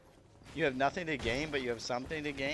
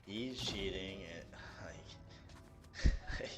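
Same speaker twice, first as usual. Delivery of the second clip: whispered aside; 6 semitones lower, 5 dB quieter, much slower than usual. Real, not acted. Aside while laughing.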